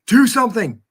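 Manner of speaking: frustrated shout at the screen; loud, fed-up yell. Retold or imitated. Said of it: "yelling at the T V".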